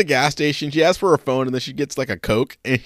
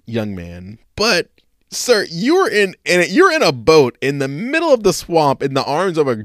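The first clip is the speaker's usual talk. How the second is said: mock outraged lecture; 4 dB louder than usual. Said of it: "I'm like".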